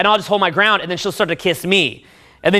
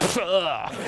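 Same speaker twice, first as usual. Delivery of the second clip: soft, breath-heavy groan of release; hammed-up relieved "ugh"; mock climax grunt; 2 semitones lower, 9 dB quieter than usual. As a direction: let out a spent groan. Acts out the climax.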